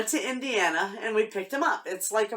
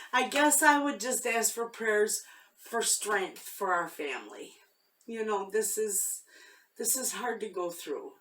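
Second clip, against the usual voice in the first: tearful. Real, not acted. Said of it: "no way I could have told you that without crying".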